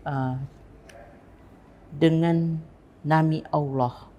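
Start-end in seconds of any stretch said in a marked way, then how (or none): 1.9-4.1 slow, with a gap after DENGAN; measured phrase broken between DENGAN and NAMI; deliberate pause. Shown as a demonstration. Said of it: "di situ ada jeda".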